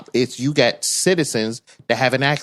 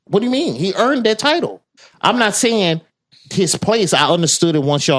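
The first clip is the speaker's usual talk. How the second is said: high-pitched, louder objection; indignant protest; 7 semitones higher, 4 dB louder than usual. Real, not acted. Co-host objecting that he earned that title, indignant. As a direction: argue it hotly, pitch jumping up.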